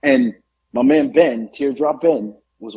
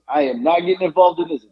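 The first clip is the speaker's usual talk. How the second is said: raised-pitch, emphatic retold refusal; mildly projected hands-off declaration; vocal refusal; 4 semitones higher than usual. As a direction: announce it so bystanders hear. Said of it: "Very vocal about it, so she hears".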